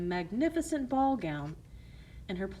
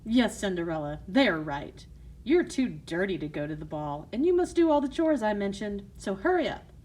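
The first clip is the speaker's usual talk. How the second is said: stern stepmother; 5 dB louder than usual. Acted. Stepmother scolding.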